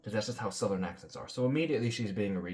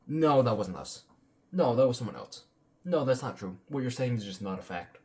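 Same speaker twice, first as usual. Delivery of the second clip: a touch louder, sing-song mock of a flat denial; 4 dB louder than usual. Commentator mocking the crypto advisor's denials, lightly louder. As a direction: parrot his stock denials back with scorn. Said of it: "His entire response is just".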